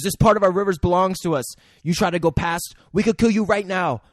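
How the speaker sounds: pirate's threat in a put-on Asian accent; mock Asian-accented indignation. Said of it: "an offensive Asian accent while he does it".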